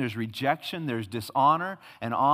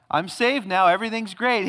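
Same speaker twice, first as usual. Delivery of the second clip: mock naive believer; 4 semitones higher than usual. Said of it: "Don't you hear people talk like that?".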